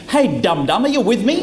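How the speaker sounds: condescending. Shown as a demonstration. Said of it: "it's really saying".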